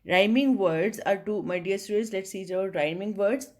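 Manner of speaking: slow, deliberate reading of the heading; textbook read-aloud. Acted. Teacher reading the heading to students, slow and deliberate. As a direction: read it out word by word for the class.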